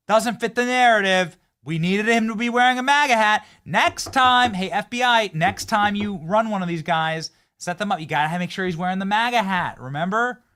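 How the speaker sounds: high, loud hectoring complaint; mock scolding. Host posing as plotter scolding FBI, mock exasperated. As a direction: tell off bungling accomplices loudly.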